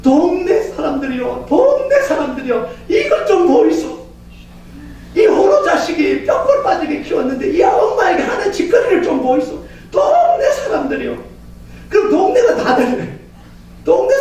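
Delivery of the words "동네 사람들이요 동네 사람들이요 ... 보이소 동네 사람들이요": widowed mother grabbing her son, screaming to the neighbours in mock distress; mother yelling for help. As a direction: bellow to the whole village, half sobbing. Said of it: "고래고래 소리를 지릅니다".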